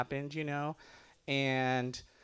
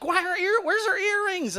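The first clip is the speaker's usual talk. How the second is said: imitating mom. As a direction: demand it like a shocked traditional mother. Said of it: "she kept on being like".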